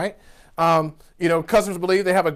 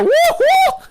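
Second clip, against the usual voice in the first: slow, very high, loud woo-hoo; fan cheer; 6 dB louder than usual. Retold or imitated. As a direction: whoop like a thrilled fan. Raving fans cheering.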